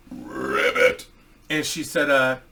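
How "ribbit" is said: frog croak. Pretend. Joke frog noise mid-story.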